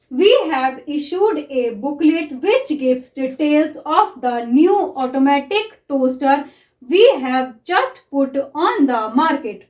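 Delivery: very slow, even dictation reading. Shown as a demonstration. Teacher reads a shorthand passage to students, very slowly. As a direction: read it out word by word for writing.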